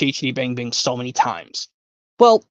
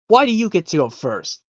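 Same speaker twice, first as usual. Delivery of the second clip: kitten quote; 4 semitones higher than usual. Retold or imitated. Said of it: "Yep, from the Aristocats".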